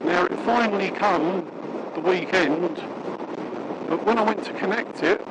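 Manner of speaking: muffled inside a closed helmet; talking behind a shut visor. Real, not acted. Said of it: "now I've just clicked me, um, visor down".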